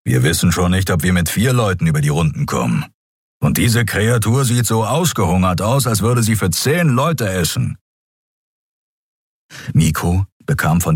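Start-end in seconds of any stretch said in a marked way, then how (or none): 0.0-7.8 lightly voiced grumbling creature. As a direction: complain under your breath. Keru keeps his creature voice.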